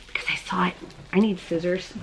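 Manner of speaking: unvoiced aside; whisper. Real, not acted. Vlogger confessing to viewers, whispered. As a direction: breathe it as a secret. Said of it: "aside to viewers, whispered".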